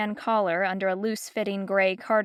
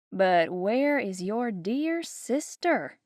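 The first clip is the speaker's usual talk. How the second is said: mock sweet; slower than usual. Geraldine asking after sister.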